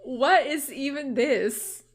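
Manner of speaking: slow, baffled question; puzzled by the screen. Real, not acted. Baffled at game glitch.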